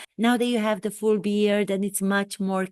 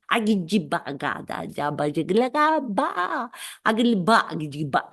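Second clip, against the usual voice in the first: failed British accent gibberish. Shown as a demonstration. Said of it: "It happens when I attempt to do a British accent".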